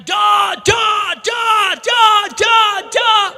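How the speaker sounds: high, forceful repeated command; commanding shout. Retold or imitated. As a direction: cast it out with force. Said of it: "मैं कहता हूँ".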